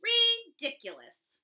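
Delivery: high, loud, slow cat sneer. Acted. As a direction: stretch the word out like a haughty cat. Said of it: "meowed the cat".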